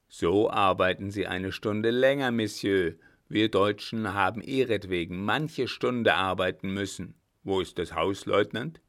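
lightly voiced marshal, loud and dismissive; a hint of a stern commander; curt, commanding marshal. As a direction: wave away the excuse and give orders. Blücher dismisses the excuse.

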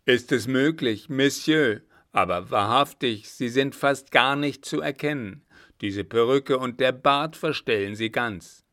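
loud, amazed call-out; astonished exclamation. A narrator's reading. Florian recognizing the disguised man, astonished exclamation. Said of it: "schlug sodann die Hände zusammen und rief".

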